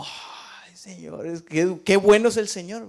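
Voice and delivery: a whispered gasp rising into praise; awed relief turning to praise; breathy relief. Retold or imitated. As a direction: sigh out, then thank God aloud. Relief at new flight.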